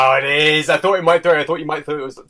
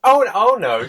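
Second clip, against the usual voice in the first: mock Toad cry; 6 semitones higher, 5 dB louder than usual. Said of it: "Does he say that?".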